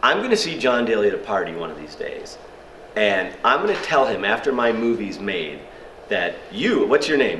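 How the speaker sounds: mildly indignant phone rant; retold anger. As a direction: lay down a threat with mock outrage. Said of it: "so now I'm angry".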